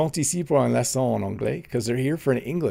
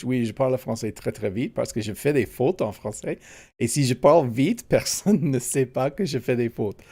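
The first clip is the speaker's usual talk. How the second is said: quick, running French speech; rapid French. Real, not acted. Answering a viewer's chat comment, rapid French. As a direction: rattle it off in French. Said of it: "You speak faster in French than you do".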